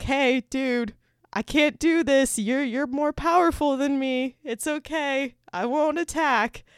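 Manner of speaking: high-pitched voice of an animal backing down; submissive animal. Acted. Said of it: "They bow down when".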